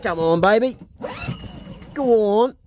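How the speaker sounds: high, loud, strained coaxing; urging on. Real, not acted. Owner to generator that won't start, loudly urging it. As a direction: egg on a stubborn engine at full voice.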